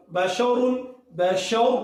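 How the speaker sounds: بشور ending on a thick, full-mouthed ر; heavy ra. Shown as a demonstration. Teacher models heavy ر in بشور for class. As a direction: round the ر in بشور heavy and dark. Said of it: "را کو موٹا پڑھنا ہے".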